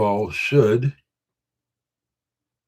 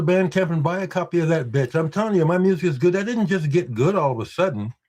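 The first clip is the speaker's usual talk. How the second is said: insistent, raised and quick, hammering the point home; emphatic; 5 semitones higher, faster than usual. Real, not acted. Streamer insisting to his chat, emphatic not angry. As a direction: convince them your music is good. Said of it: "I'm being emphatic, not angry".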